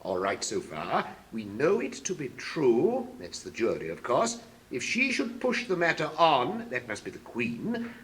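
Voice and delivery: low soft mumbling to himself; muttered asides. Acted. King mumbling through the verses, low and soft. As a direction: murmur the working out.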